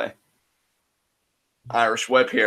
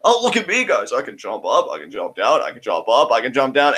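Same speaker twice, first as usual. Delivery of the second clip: mocking show-off. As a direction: taunt like a smug kid. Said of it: "And Desperado now".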